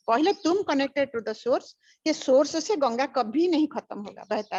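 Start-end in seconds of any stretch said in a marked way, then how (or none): 0.1-1.6 slow, each word weighed; slow emphatic teaching. Real, not acted. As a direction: spell out the core teaching slowly. Repeats key teaching slowly. (धीमे और ज़ोर देकर सिखाते हुए)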